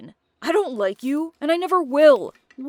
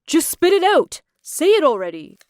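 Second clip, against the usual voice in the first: sharp angry demand, louder and higher; angry outburst; 4 semitones higher, 6 dB louder than usual. Acted. Mark losing patience with Naomi, an angry demand. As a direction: snap at her to get it out. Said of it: "Mark got mad and said".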